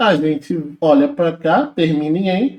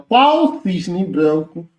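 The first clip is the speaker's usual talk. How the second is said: slow rereading; much slower than usual. Acted. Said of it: "vamos voltar no texto?".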